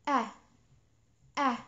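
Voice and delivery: isolated short "أ" as in "cat", held and clear; vowel demo. Shown as a demonstration. Teacher models the first short vowel for learners. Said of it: "صوت عندنا هو".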